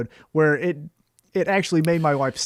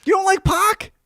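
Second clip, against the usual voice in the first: high, incredulous question; stunned, rising challenge; real disbelief; 4 dB louder than usual. Real, not acted. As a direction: pitch shoots up in astonishment. Co-host learns of dislike.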